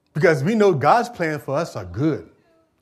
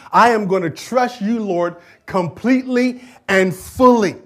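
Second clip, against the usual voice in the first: fervent prayer; 4 semitones higher, 5 dB louder, slower than usual. Acted. Preacher voicing believer's prayer.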